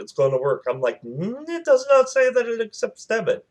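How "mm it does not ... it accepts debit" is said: high-pitched mock protest, held up high; doubtful objection. Passenger objecting that the pump takes no debit, high doubtful protest. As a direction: voice a skeptical quote way up high.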